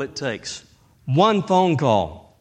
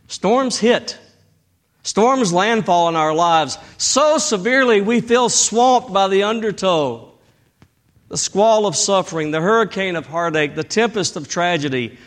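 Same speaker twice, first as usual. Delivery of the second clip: preaching; 5 semitones higher than usual. Acted. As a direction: preach it up to the congregation. Preaching at full force.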